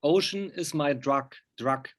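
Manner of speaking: "Ocean is my drug" slowed and spelled out; carefully slow, stressing "drug"; slow clear repeat. Real, not acted. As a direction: repeat it slowly so they catch it. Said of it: "You what?".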